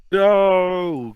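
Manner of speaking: high, loud shrieked no. Acted. Coach losing the water gun, high loud shriek. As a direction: shriek it in panic. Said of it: "Coach Crump shrieks".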